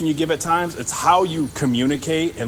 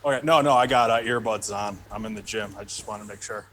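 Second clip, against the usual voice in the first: heavy breathing; 3 semitones lower than usual. Real, not acted. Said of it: "sorry if I'm breathing heavy".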